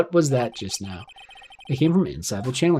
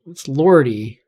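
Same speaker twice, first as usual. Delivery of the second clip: attempted Southern accent; 6 dB louder, much slower than usual. Shown as a demonstration. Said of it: "I can't say it with a good accent".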